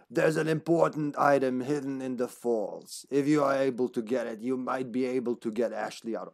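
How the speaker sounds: lightly voiced mysterious informant; letter writer's voice. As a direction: read a letter in a slightly put-on character voice. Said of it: "I don't know which voice to give him".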